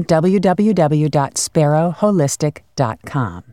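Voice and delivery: slow, careful web address; spelling it out. Shown as a demonstration. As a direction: read the address out slowly. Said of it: "So I'm gonna give it again".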